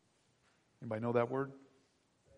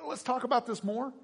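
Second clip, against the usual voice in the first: interested listener; 12 semitones higher, 4 dB louder than usual. Retold or imitated. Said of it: "they say".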